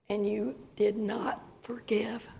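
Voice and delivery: soft unvoiced reproach; hushed divine reproach; quiet rebuke. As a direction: whisper God's gentle correction. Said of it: "God rebuking her".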